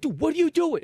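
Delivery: high-pitched imitation of an indignant yell; retold outraged outburst, pitch jumping up; mock yelling. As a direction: act out a crowd member yelling in disbelief. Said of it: "like, yelling at him".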